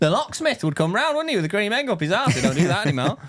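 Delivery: mock nostalgic voice.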